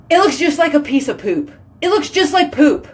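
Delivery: can barely hold it together; giggly excitement. Real, not acted. Laughing at poop candy bar.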